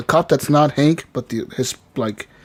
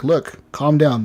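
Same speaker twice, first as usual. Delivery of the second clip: calming; slower than usual. Retold or imitated. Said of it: "I managed to calm the guy down".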